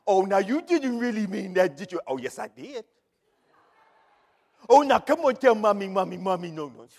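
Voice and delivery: hammed-up begging parent; lightly voiced coaxing mommy; mock pleading mother. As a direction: wheedle the child, overdone.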